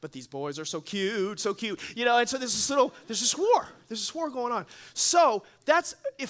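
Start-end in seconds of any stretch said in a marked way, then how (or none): 0.0-1.8 daughters gushing. Retold or imitated. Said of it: "And they're like".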